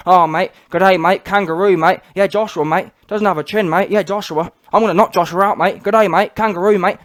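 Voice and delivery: mocking Australian twang, "mate" on every line; mock Australian accent. Vlogger mocking a boxer's pre-fight trash talk in an Australian accent. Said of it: "you talked a big game about Joshua being".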